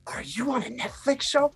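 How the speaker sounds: put-on a young fan suddenly recognizing him, voice up high; excited little girl. Girl realizes who he is.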